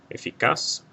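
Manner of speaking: Eficaz stressed on the final CAZ; stress on last syllable. Shown as a demonstration. Teacher giving the accent-mark answer, Eficaz stressed on CAZ. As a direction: lean on CAZ at the end of Eficaz. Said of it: "stress is on the last syllable".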